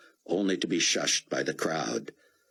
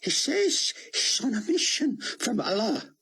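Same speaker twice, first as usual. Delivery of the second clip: whispered. Acted. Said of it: "Rabbi Ben Judah whispered".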